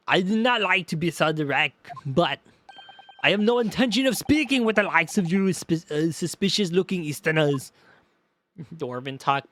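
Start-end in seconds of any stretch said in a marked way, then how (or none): 0.1-7.7 put-on mild Schwarzenegger accent. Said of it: "give him Arnold Schwarzenegger".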